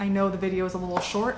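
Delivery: talking kind of fast, hurried.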